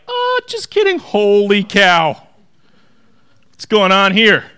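high, loud startled cry; hammed-up shocked disciples; awestruck disciples. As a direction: react like the floor dropped out. Terrified disciples in the boat.

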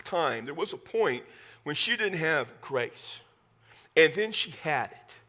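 each word spaced out slowly, with weight; drawing out "she didn't have grace" then "she had it"; slow and deliberate. Shown as a demonstration. Preacher spelling out grace to his congregation, slow and deliberate. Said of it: "here's an example of that".

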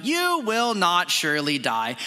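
lightly British serpent, slow delivery; a hint of British, drawn out slowly; British accent. Serpent to the woman, lightly British denial. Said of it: "wanna put a British accent there for him".

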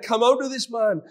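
commanding rebuke. Acted. Jesus commanding demon, read aloud.

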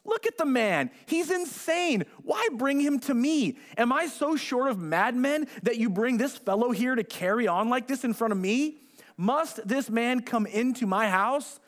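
a hint of a king sneering at a madman; scornful king.

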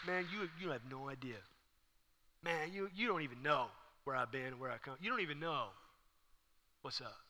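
quiet, indignant mock comeback; muttered under the breath, holding back; muttered retort. Imagined retort to a false accuser.

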